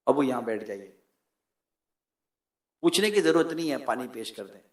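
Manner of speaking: low, soft, dutiful tone; quietly attend to an honoured elder; respectful care. Acted. Son offering his father a seat and water, respectful.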